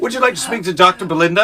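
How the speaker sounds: put-on helpline voice, hammed up; mock doctor's receptionist. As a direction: pretend to offer a medical consultation. Playfully announces co-host as a doctor.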